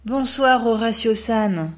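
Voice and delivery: high, glad greeting, name drawn out slowly; exclaiming. A narrator's reading. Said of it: "s'exclama Megumi".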